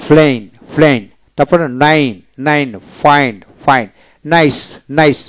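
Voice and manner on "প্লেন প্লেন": প্লেন with a gliding ei vowel; British plain. Shown as a demonstration. Teacher modelling British plain. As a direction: stretch প্লেন into plein. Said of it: "আবার ব্রিটিশে".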